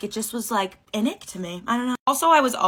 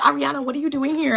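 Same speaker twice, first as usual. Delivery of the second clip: mock surprised brother; 7 semitones higher, 5 dB louder than usual. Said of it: "he's like".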